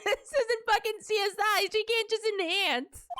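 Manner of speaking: very high squealed outrage through laughter; incredulous laughing protest. Real, not acted. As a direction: protest helplessly while cracking up. Ranting at absurd enlargement, laughing.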